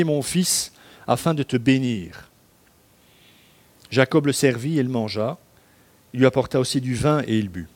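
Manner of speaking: measured, solemn Bible reading; steady liturgical reading voice; scripture reading. Acted. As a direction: read the passage like a lector at the pulpit. Continues reading Genesis aloud.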